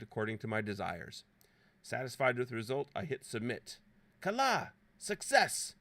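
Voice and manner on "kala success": high, loud exclamations of victory; mock triumph. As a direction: cry out in playful triumph. Acted triumph at right answer.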